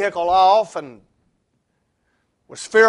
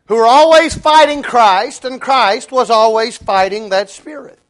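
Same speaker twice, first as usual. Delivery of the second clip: emphatic preaching; 3 semitones higher, 6 dB louder than usual. Acted.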